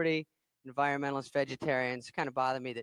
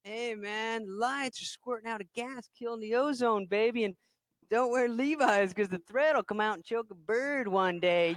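preachy hippie; 4 semitones higher, slower than usual. Retold or imitated. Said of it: "River all carried away".

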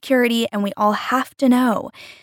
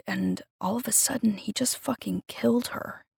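hushed, softer whisper; 9 dB quieter than usual. A narrator's reading. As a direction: say it barely above a whisper. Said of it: "Noah whispered".

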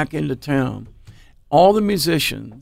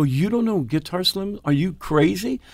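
high-pitched questioning disbelief; mock outrage at someone's ignorance; incredulous; 4 semitones higher than usual. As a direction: ask it higher, amazed they don't know. Acts disbelief at man's ignorance.

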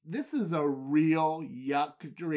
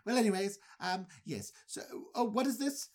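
Andy Dufresne; 4 semitones higher than usual. Retold or imitated. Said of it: "very Andy Dufresne".

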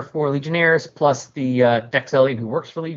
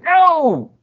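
very high, loud cry of "No!"; panicked no; 8 dB louder than usual. Acted. Demon pleading as Phase lets go, a high panicked shout. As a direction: scream it as she lets go. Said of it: "he's like".

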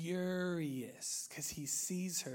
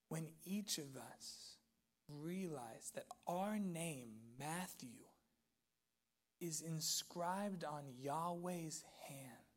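soft, slow, reverent reflection; hushed preaching; 8 dB quieter, slower than usual. Real, not acted. Preacher to congregation on being held by God, hushed reverence. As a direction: let each phrase settle in near-hush with long pauses.

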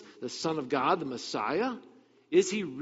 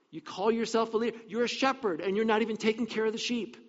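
higher pitched mock rebuke; calling out leaders; 6 semitones higher than usual. Preacher voices Ezekiel rebuking the leaders, higher-pitched mock rebuke. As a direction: scold them like a prophet, lightly. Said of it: "Ezekiel called him out".

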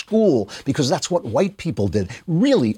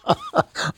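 sudden high laugh; a short high laugh that breaks the reading; burst of laughter. Real, not acted. Host laughing at the list he is reading out.

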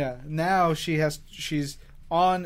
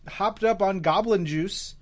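goblin juice voice; 4 dB louder than usual. Pretend. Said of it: "that's my goblin juice voice".

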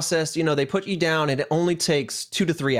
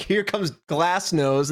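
mock nurse, laughing; much slower than usual. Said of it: "they're like".

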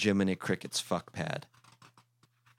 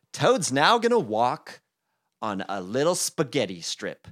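hyped announcement; 6 semitones higher, 8 dB louder than usual. Acted.

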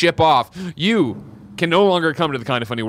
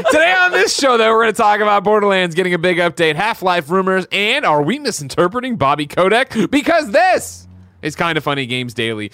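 show intro read. Acted. Host opening a games news show, announcer read. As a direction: rattle off the rehearsed show opener.

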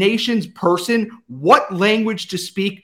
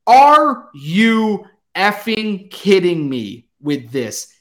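exasperated; slower than usual. Real, not acted. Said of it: "I am very angry".

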